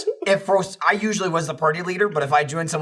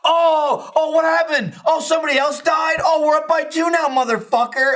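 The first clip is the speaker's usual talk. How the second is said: high, louder mocking gloat; gloating taunt; 13 semitones higher, 4 dB louder than usual. Taunting dead enemies in chat, high gloating jeer. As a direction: rub it in, singsong. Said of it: "And it's like".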